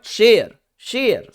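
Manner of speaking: शेयर said high with a falling tune; stress on शेयर. Shown as a demonstration. Teacher showing students where the stress falls, stressed शेयर. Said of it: "ए पर stress है".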